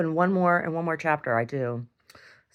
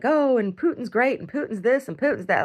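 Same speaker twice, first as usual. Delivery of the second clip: mock Putin praise; 9 semitones higher, 3 dB louder than usual.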